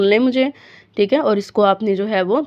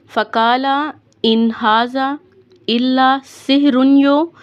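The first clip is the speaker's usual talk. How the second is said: recitation; 4 semitones higher, slower than usual. Shown as a demonstration. Teacher recites verse.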